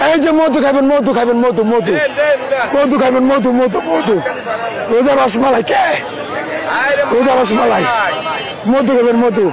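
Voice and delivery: loud hawker's call, belting out the goods; street vendor shouting. Real, not acted. Street vendor calling out his melons to passing buyers, loud shouting. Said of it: "গলা ফাটিয়ে চিৎকার করে".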